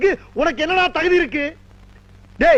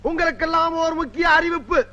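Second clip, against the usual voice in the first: grand stage speech to the crowd; political oration; 3 semitones higher than usual. Acted. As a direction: orate like a party leader. (மேடைப் பேச்சு பாணி)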